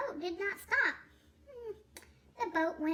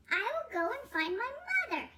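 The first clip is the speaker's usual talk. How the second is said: put-on baby bird; 6 semitones higher, faster than usual. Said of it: "he said".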